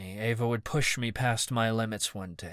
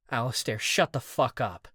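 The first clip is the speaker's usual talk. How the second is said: snapping. Acted. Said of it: "Callie snapped".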